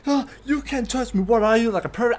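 high, loud mock outrage; put-on indignant accusation; girl making a scene. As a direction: imitate an offended girl causing a scene. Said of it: "starts making a huge scene".

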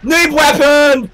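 high, drawn-out call; loud mocking holler; jeering shout. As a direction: stretch it out as a taunt. Mocking friend's weapon.

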